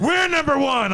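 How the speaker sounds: high-pitched boast as the wife; mock wifely bragging, voice lifted. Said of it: "she'll come outside and say".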